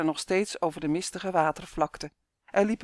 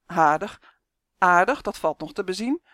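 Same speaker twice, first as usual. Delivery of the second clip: louder, indignant repeating of aardig; indignant quacking buzz; 5 dB louder than usual. Acted. Uf scoffs at Justin's praise of Janus, indignant. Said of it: "snaterzoemde u verontwaardigd".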